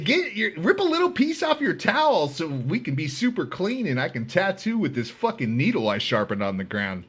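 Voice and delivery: high, hyped rush. Retold or imitated. High on heroin, urging the gang leader into the cell, hyped and loud. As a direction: rattle it off, buzzing and hyped.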